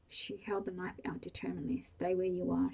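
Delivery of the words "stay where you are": firm, louder command; louder commanding warning. Acted. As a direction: hold him off with a firm order. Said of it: "she commanded".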